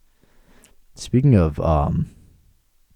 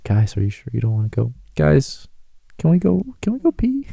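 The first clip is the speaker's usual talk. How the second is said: whiny pleading climbing much higher; 5 semitones higher than usual. Retold or imitated. Begging coworkers to come pee with him, mock whiny. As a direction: beg the guys like a needy kid. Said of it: "I'm like".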